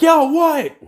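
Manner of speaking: a pumped-up guy answering; Kirishima's reply. Acted.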